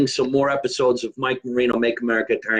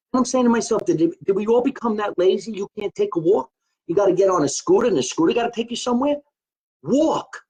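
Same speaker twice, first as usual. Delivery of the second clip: indignant rant; 7 semitones higher than usual. Retold or imitated. Ranting about lazy scooter riders.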